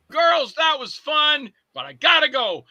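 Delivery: high, drawn-out movie-villain call; lightly acted breezy sign-off, stretched out slowly; Kurt Russell. Movie character signs off to the girls, drawn-out acted call. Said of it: "Like Kurt Russell in Death Proof".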